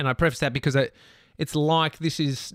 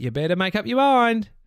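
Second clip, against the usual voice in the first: mock, light, playful teasing tone, pitched up; 7 semitones higher, 4 dB louder than usual. Retelling a remark to two men blocking an exit, retelling a playful remark. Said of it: "said in a playful way".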